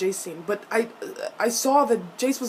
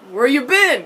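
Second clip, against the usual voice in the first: giddy mimicry; 4 semitones higher, 8 dB louder than usual. Imitating giddy Alec's question.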